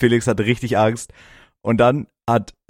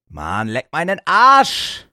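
mock exasperation; 7 semitones higher, 4 dB louder, much slower than usual. Fed-up outburst at friend's mumbling.

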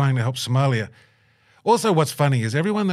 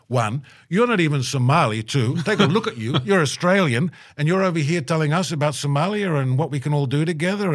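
raised, higher voice of an angry crowd; mock angry crowd; 5 semitones higher than usual. Angry Somali youth scolding the Australian visitor, raised and higher. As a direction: give them the outraged crowd's scolding, pitched up. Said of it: "they were very upset at me, very mad".

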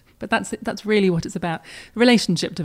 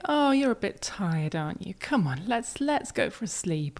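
put-on sing-song baby talk; 4 dB quieter than usual. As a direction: coo it gently with a swooping sing-song tune. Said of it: "using that sing-song voice that we use for babies".

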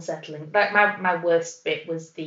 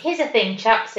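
put-on South African accent; 3 semitones higher, 4 dB louder than usual. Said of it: "but in a South African accent".

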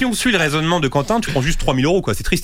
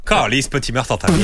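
mock Quebec accent, laughing; lower-pitched jokey Quebec accent; 5 semitones lower than usual. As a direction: put on a joke Québécois accent. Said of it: "québécois".

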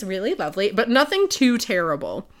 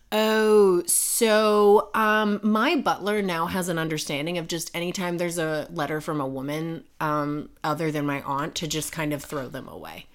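halting admission, sinking low and soft; retold sheepish excuse; 4 semitones lower, 4 dB quieter than usual. Man admitting his butler throws letters away, sheepish. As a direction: imitate his awkward explaining, trailing downward.

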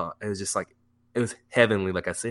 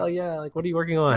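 imitated girlfriend; 9 semitones higher, faster than usual. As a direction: lightly mimic an inquisitive girlfriend. Retold girlfriend asking, high soft voice.

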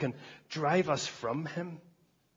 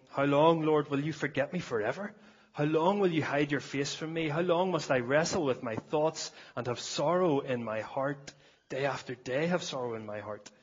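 lament reading. Acted. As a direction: plead the psalmist's questions aloud. Reads lament psalm.

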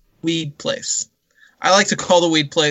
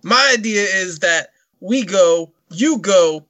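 a loosely done Scarface voice, slow and drawn out; Scarface impression; slower than usual. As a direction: do a lightly voiced tough gangster. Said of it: "and I'm talking like this".

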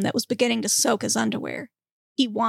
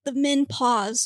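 put-on slow French-accented narration; 2 semitones higher, slower than usual. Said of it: "you gotta say that whole thing over again".

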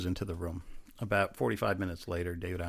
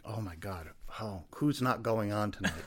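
laughing disbelief; 2 semitones higher than usual. Retold or imitated. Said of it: "And I'm like".

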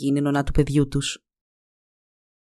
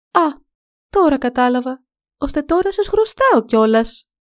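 higher, louder, indignant snap; angry retort; 8 semitones higher, 3 dB louder than usual. A narrator's reading. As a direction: sneer at the poor farmer. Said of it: "απάντησε εκείνη θυμωμένα". (θυμωμένα, με ειρωνεία)

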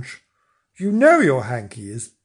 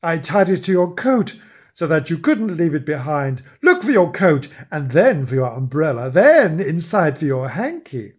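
wife calling; 3 semitones higher, 4 dB louder than usual. Acted. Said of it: "called his wife".

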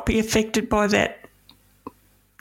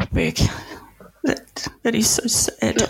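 hushed, moved. Real, not acted. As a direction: breathe it out, deeply touched. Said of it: "I knew I'd cry".

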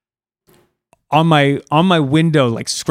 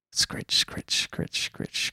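soft breathy scritch, much quieter; whispered scratching noise; 10 dB quieter, much slower than usual. Retold or imitated. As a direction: hiss the scratching like claws on a wall. Imitating scratching noise again.

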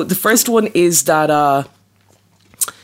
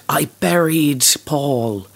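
whisper; slower than usual. Retold or imitated. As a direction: whisper it slowly. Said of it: "supposed to have whispered".

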